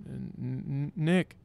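stammered sleep-talk on "Nick"; pretend sleep talking. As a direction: stutter the N, then let out "Nick" as if asleep. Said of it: "act like I'm drifting off to sleep".

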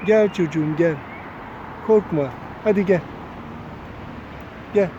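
calling a shy parrot to come; coaxing call. Real, not acted. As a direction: coax the bird over with your voice.

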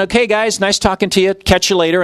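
Jesus pretending to leave the travelers; casual goodbye. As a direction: wave them off lightly. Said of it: "He acted like".

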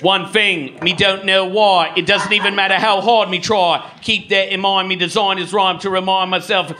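lightly Cockney sung line; Cockney take on a band's song. Pretend. A light Cockney singer doing a band's song for the crowd. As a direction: sing it as a Cockney lad. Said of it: "a British guy with a Cockney accent".

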